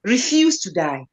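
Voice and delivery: firm, emphatic declaration; resolute, every word given weight; with conviction. Shown as a demonstration. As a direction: say it like you fully mean it. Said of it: "when you say it with conviction".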